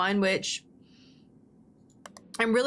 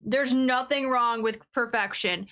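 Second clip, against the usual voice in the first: mock grandiose declaration.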